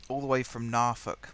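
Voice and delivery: a light, half-hearted put-on Norfolk accent; a hint of a Norfolk accent; bad Norfolk accent. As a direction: try a Norfolk accent and miss it. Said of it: "That's a terrible accent".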